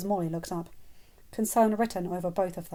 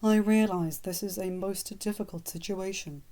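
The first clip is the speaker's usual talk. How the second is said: soothing. Acted. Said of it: "he said soothingly".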